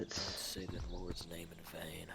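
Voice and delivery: unvoiced hushed scolding; whisper. Real, not acted. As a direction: whisper the rebuke.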